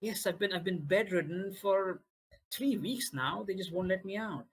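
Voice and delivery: put-on childlike npc.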